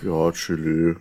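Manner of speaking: sleepy, drowsy voice; half asleep, drowsy words; nodding off. Real, not acted. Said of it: "man sieht es schon".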